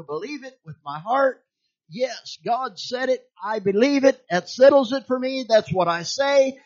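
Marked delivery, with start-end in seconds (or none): 1.9-6.6 higher and louder, firm declaration. Real, not acted. Preacher declaring her faith to the church, firm. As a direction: stamp it down as settled.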